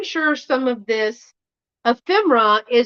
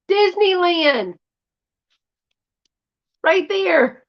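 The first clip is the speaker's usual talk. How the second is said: higher, slow delighted exclaim; excited; 7 semitones higher, slower than usual. Real, not acted. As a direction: savor the word with delight. Delighted at the circled map.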